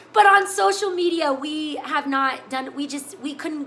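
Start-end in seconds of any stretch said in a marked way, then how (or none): 0.1-1.3 laughing. Real, not acted. Laughing into the next line.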